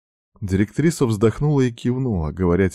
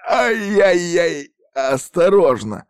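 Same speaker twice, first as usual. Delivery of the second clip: high, slow pained cry; groaning in pain; 11 semitones higher, 5 dB louder, slower than usual. A narrator's reading. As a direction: moan as she grips sore shoulders. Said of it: "простонал юноша". (стон от боли, высоко и медленно)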